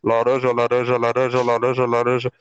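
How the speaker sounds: very low, monotone chant; orange truck announcer. Retold or imitated. Orange seller calling from his truck, low repetitive drone. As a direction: drone one word like a loudspeaker loop. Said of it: "o cara só fala uma palavra".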